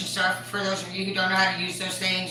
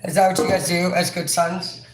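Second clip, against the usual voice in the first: louder, laughing through the words; laughing while talking; 6 dB louder than usual. Real, not acted. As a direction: tease him through laughter. Laughing question to son.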